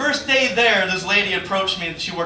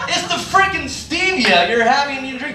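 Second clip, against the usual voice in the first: exasperated; 4 semitones higher than usual. Acted. Exasperated reply to customer.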